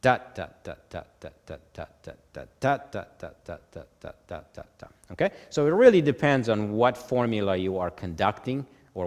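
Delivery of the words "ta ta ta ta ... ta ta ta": first ta firm, the following ta fading soft; accent on the downbeat. Shown as a demonstration. Teacher counting nine eight with the first beat accented. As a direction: stress the first ta and let the rest trail quietly. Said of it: "The first beat will get the accent, the other ones are gonna be unaccented".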